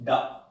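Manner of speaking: डा as a voiced "da" syllable; wrong -ed sound. Shown as a demonstration. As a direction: sound out डा alone, as the mistake. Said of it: "ये wrong है भाई".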